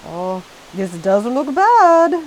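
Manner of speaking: reluctant admission. A narrator's reading. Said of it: "George admitted at last".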